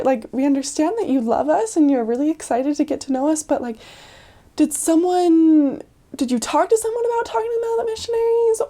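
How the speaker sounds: careful high-pitched asking. Retold or imitated.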